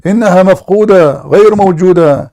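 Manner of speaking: mocking taunt. Real, not acted. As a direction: rub the missing verse in his face.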